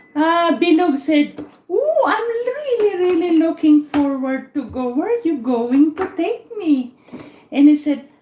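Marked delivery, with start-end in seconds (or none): 1.7-7.0 mildly excited, rising on the ooh; lively, looking forward to the outing; eager. Acted. Bilog answers his friend about a surprise outing, eager. Acted eager reply in a joke.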